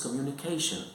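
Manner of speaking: "communication" with main stress on "ca". Shown as a demonstration. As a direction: put the weight on "ca" in "communication". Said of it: "So the stress is on the third syllable".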